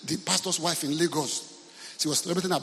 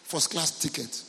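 demanding guest; slower than usual. Retold or imitated. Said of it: "He said".

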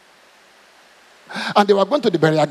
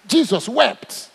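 slow solemn; 3 semitones higher, much slower than usual. Real, not acted. Dramatic scripture pause.

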